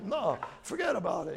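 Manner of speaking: mock Long Island denial, shouted; a hammed-up New York "forget about it"; Long Island accent. Peter denying he's Galilean, in a mock Long Island accent. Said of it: "somebody from Long Island telling you".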